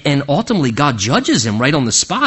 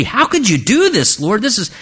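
angry protest; 6 semitones higher than usual. Retold or imitated. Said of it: "David's just angry".

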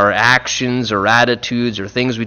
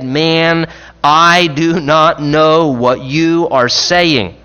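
slow firm denial; 3 semitones higher, 4 dB louder, much slower than usual. Retold or imitated. Peter's third denial.

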